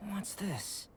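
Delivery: a hushed question at a strange find; curious whisper. Acted. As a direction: whisper it to yourself, intrigued. Puzzled at strange ruins script.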